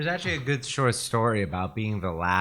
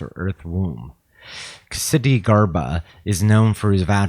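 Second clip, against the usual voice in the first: reading voice. Real, not acted. Reading a Bodhisattva entry aloud to a friend, reading voice. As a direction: read it out clearly for the listener. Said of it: "in your best reading voice".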